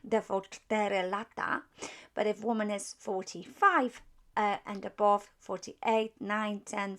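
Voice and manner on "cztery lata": cztery lata said in careful Polish, cztery stressed. Shown as a demonstration. Teacher repeating cztery lata for the class. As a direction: lean on cztery, then lata. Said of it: "I'm actually pronouncing number four".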